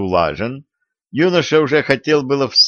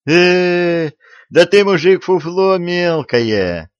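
scornful; 7 semitones higher, slower than usual. Acted. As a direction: sneer at a small-time crook. Youth scorns the bandit.

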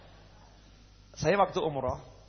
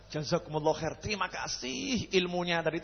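overly polite leave-taking; 4 dB quieter than usual. Retold or imitated. Polite exit from the critic.

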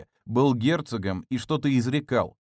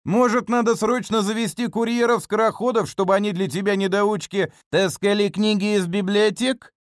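loud, high sneering taunt; mock him like a pantomime villain; 9 semitones higher, 4 dB louder than usual. Butler mocking Kuropyolkin.

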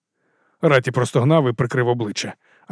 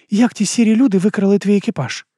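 put-on higher young female voice, uneasy question; a nervous girl asking, pitched up; Амена, вищий жіночий голос; 7 semitones higher, 3 dB louder than usual. A narrator's reading. Amena voiced. (вищий дівочий голос, тривожне запитання)

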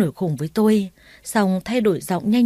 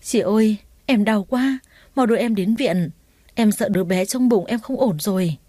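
crying; 2 semitones higher than usual. Acted. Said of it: "Cái Huệ vừa khóc vừa nói".

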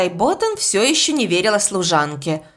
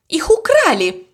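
angry, raised half-shout; almost shouting; 8 semitones higher, 4 dB louder than usual. A narrator's reading. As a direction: accuse the room, nearly yelling. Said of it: "чуть ли не кричала".

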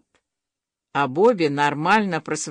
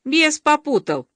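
high, cheerful owning-up; joyful confession; 7 semitones higher than usual. A narrator's reading. Guilty boy happily admits his fault, in a joyful tone. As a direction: admit it gladly, pitched up. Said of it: "радостно признался он".

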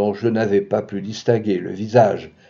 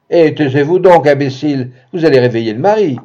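sharp rebuke; 2 semitones higher, 6 dB louder than usual. Acted. Imagined hissed rebuke.

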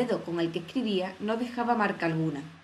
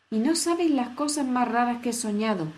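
exclamación; 4 semitones higher than usual. Acted. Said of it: "exclamó Alicia".

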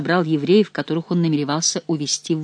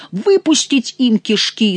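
slow, higher-pitched roar; bellowing; 6 semitones higher, 4 dB louder, slower than usual. A narrator's reading. Favourite calling for Angevins' blood, bellowing. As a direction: drag out the battle cry, high and slow. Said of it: "заорал Можерон".

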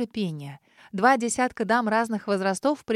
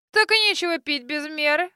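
higher, scornful snort of a line; snorting retort; 5 semitones higher, 3 dB louder than usual. A narrator's reading. Grandmother snorting at the old man's drinking, mild scorn. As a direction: scold him with a snort. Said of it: "фыркнула бабуля".

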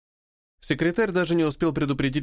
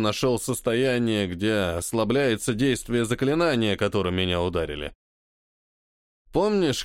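put-on drunk, tongue tripping; slurred speech; 3 semitones lower than usual. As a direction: slur the words lazily. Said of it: "продолжил заплетающимся языком".

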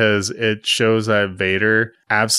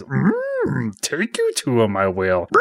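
high hum sliding down into words; Yoda; 3 semitones higher, slower than usual. Retold or imitated. Yoda offering to take Luke along, creature voice. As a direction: impersonate the little puppet, starting high and dropping. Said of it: "He says".

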